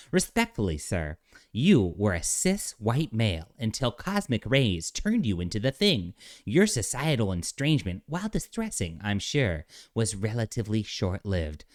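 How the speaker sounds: lightly voiced prim rock being; a hint of a smug lecturing alien; mocking soy voice. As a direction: read it primly, a hint of scorn. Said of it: "I'll read it in soy voice".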